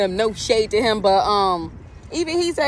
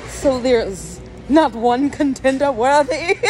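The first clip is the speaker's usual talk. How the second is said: exasperated; 3 semitones higher, 4 dB louder than usual. Real, not acted. Complaining that all men fall short, exasperated. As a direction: lament it with rising disbelief. Exasperated vent about dating options.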